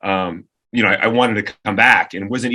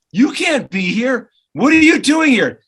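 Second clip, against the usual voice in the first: high, slow, then loud stern shout; mock security shout; 13 semitones higher, 3 dB louder, slower than usual. Security guard shouting at the radio host to leave. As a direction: bark it like a guard shooing him.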